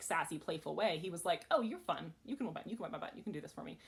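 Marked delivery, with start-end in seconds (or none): none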